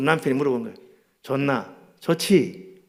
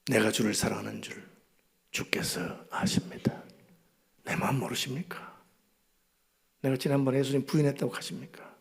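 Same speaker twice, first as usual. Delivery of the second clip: soft pleading; 2 semitones lower, 7 dB quieter than usual. Acted. Peter pleading with Jesus.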